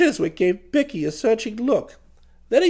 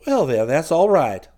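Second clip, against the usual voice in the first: hearty businessman; satisfied, hearty acceptance; 7 semitones lower than usual. A narrator's reading. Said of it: "said the chappie heartily".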